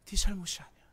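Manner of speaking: breathed in a whisper, no voice. Acted. Preacher whispering the therapist's comfort. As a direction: whisper it right into his ear.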